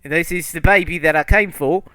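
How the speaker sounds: high, loud monster voice; high, pushy creature demand. Acted. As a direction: insist on the baby as the monster. GM speaks as creature.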